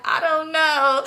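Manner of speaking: high-pitched fake wail; mock crying. Answering why she's sad, mock crying. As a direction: whine it as if forcing out tears. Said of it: "just trying to cry".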